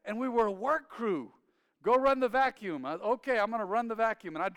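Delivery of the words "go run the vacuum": dad's order. Retold or imitated. Dad ordering the son.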